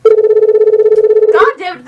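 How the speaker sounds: creepy phone voice. Acted. Creepy voice interrupting call.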